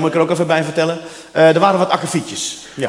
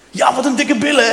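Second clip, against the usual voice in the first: mocking wife; 8 semitones higher than usual. Wife mocking his answer.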